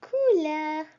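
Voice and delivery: Couleur, lips rounded, no hard English r; French couleur. Shown as a demonstration. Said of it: "Repeat after me".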